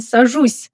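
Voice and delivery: "сажусь" ending on a softened S; soft final consonant. Shown as a demonstration. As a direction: soften the last S of "сажусь" lightly. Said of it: "notice the soft sign at the end".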